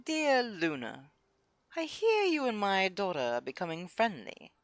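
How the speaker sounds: lightly snooty letter opening; faintly posh noblewoman; hoity-toity voice. Shown as a demonstration. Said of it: "in the hoity-toity voice".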